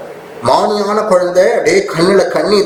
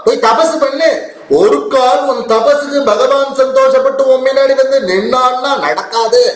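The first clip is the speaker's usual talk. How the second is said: scolding stepmother; 6 semitones higher than usual. Acted. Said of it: "இப்படி திட்டி".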